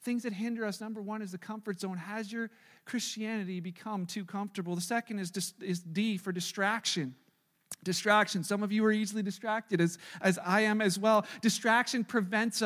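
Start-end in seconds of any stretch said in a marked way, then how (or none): 5.6-7.1 D set apart, slow and falling; stress on D. Shown as a demonstration. Pastor to church, slow and weighty on D. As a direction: lean on the letter D, slowly. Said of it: "spells out point D".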